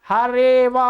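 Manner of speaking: हरे व very slow and joined; silent अ. Shown as a demonstration. Teacher repeating the joined form for students, silent अ. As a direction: stretch हरे व, dropping the अ after रे. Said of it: "अ है वो silent हो जाता है".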